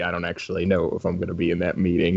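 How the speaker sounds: put-on slow, easy Southern accent. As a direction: drawl it out, a light Southern accent. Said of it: "always had a southern accent".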